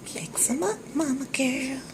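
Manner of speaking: high coaxing voice. Real, not acted. Cheering on her cooking.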